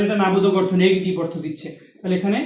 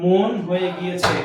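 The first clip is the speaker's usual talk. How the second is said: slow demo; 3 semitones lower, slower than usual. Shown as a demonstration. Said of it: "কি হয়ে গেছে?".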